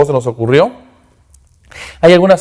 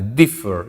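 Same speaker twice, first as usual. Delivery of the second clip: DIFFER with the weight up front, DIF-fer; "Differ" falling away after a strong first syllable; stress on first syllable; 4 semitones lower, 4 dB quieter than usual. Shown as a demonstration. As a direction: lean on DIF in "Differ" and let the end fall. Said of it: "Mayor fuerza de voz aquí adelante".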